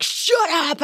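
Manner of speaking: high mock snap at friends; playful annoyance. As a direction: swat the advice away, half joking. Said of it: "And I was like".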